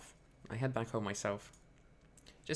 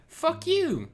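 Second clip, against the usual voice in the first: much higher and louder yelling; retold furious yelling; 10 semitones higher, 11 dB louder than usual. Streamer retelling yelling at a fake apologizer. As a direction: scream it down at them. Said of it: "And I'm like".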